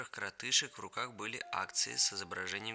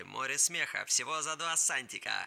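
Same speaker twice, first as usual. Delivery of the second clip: loud, high headline hawking; newsboy's cry; 4 semitones higher, 4 dB louder than usual. Acted. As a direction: cry out the headlines, stretching the big words. Newsboy crying headlines to sell papers.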